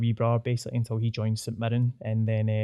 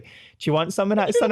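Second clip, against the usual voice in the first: higher voiced offer to a stranger; kindly old woman; 8 semitones higher than usual. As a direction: play the sweet old lady offering curry. Voicing the woman offering food.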